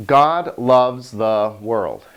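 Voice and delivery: slow demonstration; slow example sentence. Shown as a demonstration. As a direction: spell out the example slowly. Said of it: "Take a simple sentence like".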